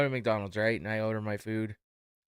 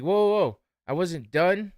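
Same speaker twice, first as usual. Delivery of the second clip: high, loud whoa to stop him; protesting; 7 semitones higher, 7 dB louder than usual. Retold or imitated. Customer stopping the cashier, loud indignant protest.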